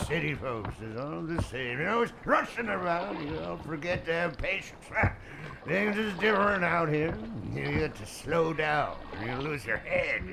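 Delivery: lightly voiced grumbling old rower; a hint of a rustic old boatman. Boatman lecturing city folks, lightly rustic.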